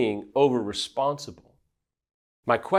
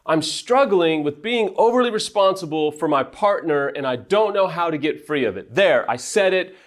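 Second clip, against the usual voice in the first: honest confession; 6 semitones higher than usual. Shown as a demonstration. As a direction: let it all out in a rush of honesty. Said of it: "embrace it and go".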